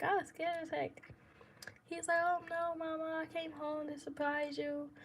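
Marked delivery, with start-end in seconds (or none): 2.2-4.9 higher, softened, lightly imitated reassurance; mildly placating partner. Partner explaining his surprise visit to her, mildly placating. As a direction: lightly voice a partner smoothing things over.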